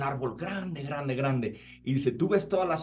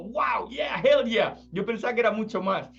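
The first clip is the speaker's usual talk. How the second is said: high, whooping hell yeah; overjoyed yogi; 10 semitones higher than usual. Retold or imitated. Yogi cheers at God's answer, very high. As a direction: cheer like you won. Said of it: "se puso súper alegre".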